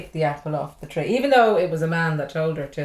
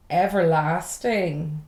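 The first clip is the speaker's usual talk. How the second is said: incredulous echo; 2 semitones lower, much slower than usual. Retold or imitated. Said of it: "and I'm going".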